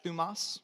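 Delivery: "thumos" said THOO-mos with a rise; "thumos" as a word to repeat. Shown as a demonstration. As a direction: teach "thumos" slowly, stress on THOO. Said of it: "Say that".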